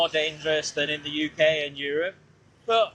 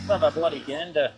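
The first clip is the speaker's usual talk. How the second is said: lower-pitched put-on Aussie; mock Australian accent; 4 semitones lower than usual. Rider checking the map, mock Australian accent. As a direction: slip into a hammed-up Australian accent.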